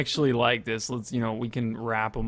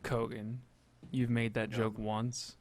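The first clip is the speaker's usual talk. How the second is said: stern warning; 10 dB quieter than usual. Acted. Mock stern warning in-game.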